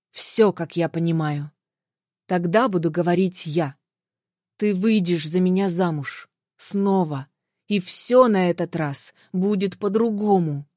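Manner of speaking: husband calmly telling his ex she will marry him again. Acted. Husband's calm demand.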